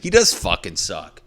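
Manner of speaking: loud stress on "does"; agreeing gripe. Acted. Coworker agreeing about the bad colleague, emphatic agreement. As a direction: hit "does" hard to back them up. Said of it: "go to the other coworker and be like".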